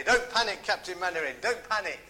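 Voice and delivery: a hint of a flustered, loud Don't panic; mock panicky old soldier, lightly voiced; lightly voiced panicking soldier; flustered Corporal Jones. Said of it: "as he was flustered and panicking".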